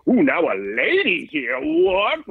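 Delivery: gasping, high mock surprise; mock scandalized host. Host pretending shock at a lady comic, mock. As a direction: play a prissy shocked announcer. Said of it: "They wanna be like".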